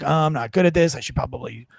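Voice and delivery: imitating a listless, monotone read; mumbling to yourself in a dull monotone; reedy monotone. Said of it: "just reedy, monotone".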